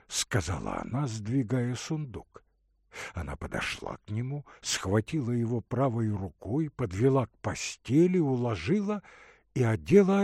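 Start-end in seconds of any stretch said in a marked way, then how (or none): none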